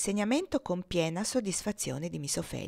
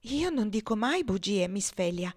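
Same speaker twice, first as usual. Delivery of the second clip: grave, mildly wounded innocence; a touch of injured dignity; offended innocence; 2 semitones higher than usual. Acted. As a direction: protest with solemn, understated hurt. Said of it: "con la gravità dell'innocenza offesa".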